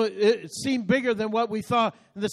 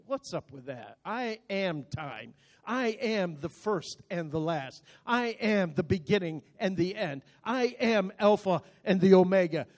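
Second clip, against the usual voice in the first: the Lord speaking; 3 semitones lower than usual. Acted. The Lord answers an impatient believer, low voice building. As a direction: start low and unimpressed, gradually gain authority. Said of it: "his arms are crossed and saying".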